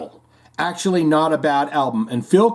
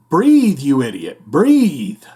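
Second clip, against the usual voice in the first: mock shout; 4 dB louder, slower than usual. Grape joke punchline, acted quote.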